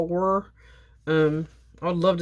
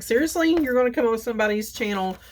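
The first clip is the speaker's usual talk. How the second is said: much higher, fast disbelieving comeback; incredulous retort; 5 semitones higher, faster than usual. Retold or imitated. Crafter answers a viewer who mocked her slurping, incredulous. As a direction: fire back, half-joking, at a rude commenter. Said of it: "I'm like".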